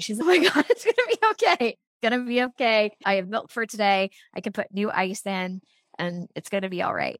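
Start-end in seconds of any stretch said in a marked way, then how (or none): 0.2-5.6 relieved outburst. Retold or imitated. Retelling a nursing mom's relief at finding ice, excited. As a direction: gush with relief, then settle.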